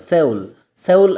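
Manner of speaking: സൗൾ said as one word with a gliding O; pronunciation demo. Shown as a demonstration. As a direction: show clearly how സൗൾ is pronounced. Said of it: "എന്നാണ് ഉച്ചാരണം". (സൗൾ, ഉച്ചാരണം കാണിച്ചുകൊണ്ട്)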